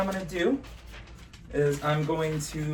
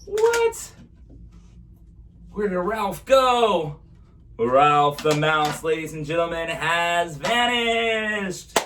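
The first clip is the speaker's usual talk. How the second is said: put-on kids party magician; 3 semitones higher, 5 dB louder, slower than usual. Magician's vanishing reveal.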